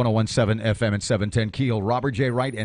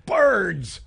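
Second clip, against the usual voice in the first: sudden higher, louder alarmed cry; panicked cry; 8 semitones higher, 5 dB louder than usual. Retold or imitated. Driver imagining plane crash as bugs hit car, alarmed cry. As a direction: blurt it like you're about to crash.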